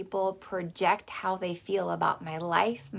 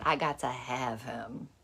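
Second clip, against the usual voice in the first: lower, determined grandma; grandma's longing; 6 semitones lower, 4 dB quieter than usual. Retold or imitated. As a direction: say it low with sudden desire. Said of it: "She said".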